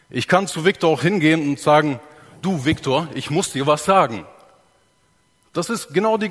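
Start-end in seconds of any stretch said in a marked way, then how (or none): 2.4-4.2 threatening. Shown as a demonstration. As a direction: say it like you're angry with him. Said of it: "eine Bedrohung für ihn darstellen".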